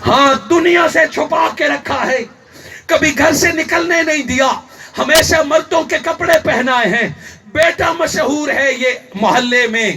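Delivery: forceful sermon storytelling; impassioned preaching. Acted. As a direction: preach it out line by line. Preacher retells at full force.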